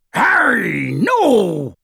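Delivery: high, drawn-out cry of alarm; anguished high-pitched yell; desperate yell. A narrator's reading. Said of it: "Then a voice yelled".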